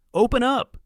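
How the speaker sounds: loud, high shout through the door; a man hammering on a door, shouting to be let in; shouted demand. Acted. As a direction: bellow it at the door. Men pounding on cabin door.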